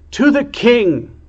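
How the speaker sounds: high, loud rallying cry; rally the room to the king; ringing battle shout; shouted cheer. A narrator's reading. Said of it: "she shouted".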